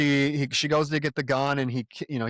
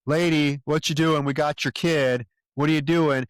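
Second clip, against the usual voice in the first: mock yell; 4 dB louder than usual. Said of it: "he comes out and he's like".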